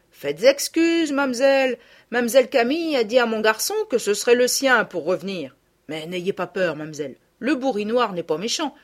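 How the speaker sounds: rustic man, gently persuasive; old peasant reassuring. Acted. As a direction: coax the girl like a kindly farmer. Nicaise reassures Sophie.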